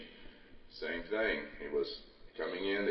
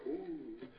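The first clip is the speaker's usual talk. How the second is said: mock awed ooh, higher and much softer; impressed ooh; 8 semitones higher, 12 dB quieter than usual. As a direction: imitate a gullible crowd being wowed. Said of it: "people just kinda go".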